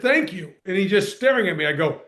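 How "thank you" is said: pointed thanks. Retold or imitated. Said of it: "and I said".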